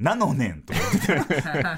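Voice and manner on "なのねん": lightly mimicked silly game-villain ending; a hint of a cartoonish sentence ending; King Bombi. Teasing junior's botched line ending, lightly mimicked. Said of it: "キングボンビーみたいに".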